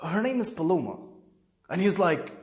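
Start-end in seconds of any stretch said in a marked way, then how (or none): 0.0-1.0 soft, tentative admission; nervous. Retold or imitated. Son naming his girlfriend to his father, timid and soft. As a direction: own up to it quietly after a hesitation. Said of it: "Then I start sound like we nervous".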